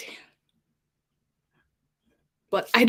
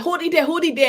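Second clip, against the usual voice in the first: cutting off; 8 semitones higher, 4 dB louder, faster than usual. Retold or imitated. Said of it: "He was like".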